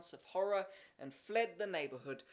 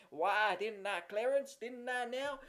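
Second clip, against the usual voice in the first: put-on higher, louder boyish boasting; bragging boy; 4 semitones higher, 3 dB louder than usual. A narrator's reading. Jimmy bragging to Horace, raised boyish voice. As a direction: outdo the other kid.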